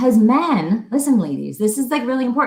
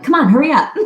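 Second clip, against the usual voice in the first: laughing mock nag, a bit louder; impatient nagging; 3 semitones higher, 5 dB louder, faster than usual. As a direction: hurry him along, half laughing. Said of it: "when I'm like".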